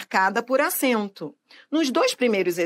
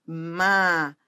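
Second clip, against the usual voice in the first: Maracujá syllable by syllable, JÁ held long; stress on last syllable; 6 semitones lower than usual. Shown as a demonstration. Teacher showing an oxítona, last syllable stressed in Maracujá. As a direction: break up Maracujá and stretch the final JÁ. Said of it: "é a última sílaba da palavra".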